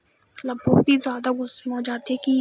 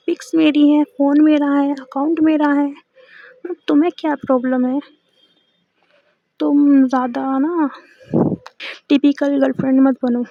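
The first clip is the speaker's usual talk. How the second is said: louder, irritated, pushing back; annoyed retort; 6 dB louder than usual. Retold or imitated. Girlfriend refusing to delete pics, irritated and louder. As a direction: snap back at her nagging partner. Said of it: "चिढ़ जाती है".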